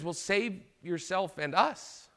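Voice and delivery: 조롱하는 범죄자; sarcastic. Retold or imitated. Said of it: "almost sarcastic tone".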